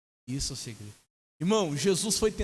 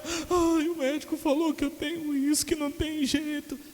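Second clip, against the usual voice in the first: high, wailing whine; put-on tearful self-pity; mock crying; 10 semitones higher than usual. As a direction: whimper like a helpless patient, hammed up. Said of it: "ficava chorando".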